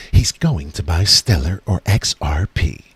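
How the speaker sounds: low, slow put-on voice; lightly voiced viewer; mock viewer voice. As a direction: voice the viewer's predictable answer. Guessing what viewer Luke will do.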